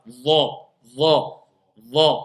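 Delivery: Dha low and heavy, tongue pressed inside; emphatic dha. Shown as a demonstration. Teacher showing the emphatic dha to students. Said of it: "Encore, on l'emphase".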